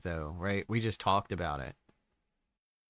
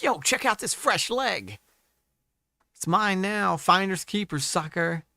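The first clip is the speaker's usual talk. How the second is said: sly nasal snickering whisper; 4 semitones higher than usual. Retold or imitated. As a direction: play a gleeful thief. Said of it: "to be like".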